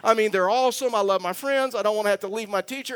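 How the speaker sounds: hammed-up child panic, pitch way up; panicked big brother. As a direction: voice an older boy losing his mind in the car. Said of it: "he is over there losing his mind".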